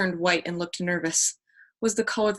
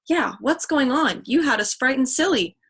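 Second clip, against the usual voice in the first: upset; 5 semitones higher, 4 dB louder than usual. Acted. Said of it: "Iola joined in".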